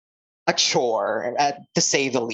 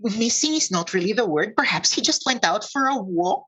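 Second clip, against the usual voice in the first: slightly higher, lilting character voice; polite centaur, lightly voiced and higher; a touch higher, courteous centaur character; lightly voiced centaur townswoman; 6 semitones higher than usual.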